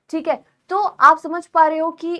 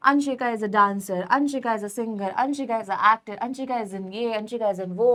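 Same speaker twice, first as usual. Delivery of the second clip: slow example sentences; 2 semitones lower, much slower than usual. Shown as a demonstration. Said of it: "बार बार Anshika repeat हो रहा है".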